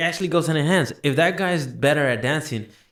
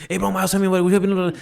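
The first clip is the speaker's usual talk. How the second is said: higher, hyped-up and blurting it out; overeager greeting; 5 semitones higher than usual. Shown as a demonstration. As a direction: jump on him all excited. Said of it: "I'm not gonna be like this".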